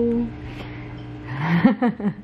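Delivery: soft trailing laugh. Real, not acted. Mother amused after singing to her toddler, soft laugh. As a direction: laugh it off lightly.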